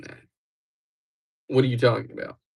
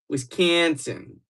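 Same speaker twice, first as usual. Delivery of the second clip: slow, drawn-out Wisconsin accent gone Canadian; botched Midwestern accent; attempted Wisconsin accent, Canadian-sounding; 3 semitones higher, much slower than usual. Shown as a demonstration. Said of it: "That's Canadian".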